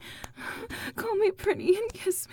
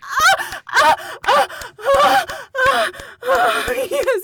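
high loud moaning cries; 4 semitones higher, 6 dB louder than usual. Acted. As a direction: moan out loudly. Climax cries.

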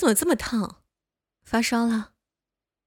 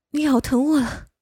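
sharp cry of pain, louder; pained yell; 4 semitones higher, 5 dB louder than usual. Acted. Bitten by her feverish friend, a pained loud yelp. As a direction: yelp it out, he bit you.

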